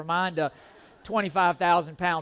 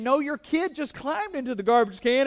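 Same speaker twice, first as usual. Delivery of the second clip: mock angry retort; 5 semitones higher than usual. Retold argument with lady.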